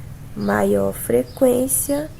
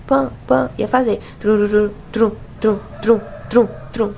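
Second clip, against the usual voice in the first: choppy blender. Shown as a demonstration. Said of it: "o som ia ficar curto".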